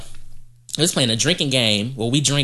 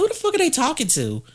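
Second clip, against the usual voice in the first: retold disbelief; 12 semitones higher than usual. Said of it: "And I was like".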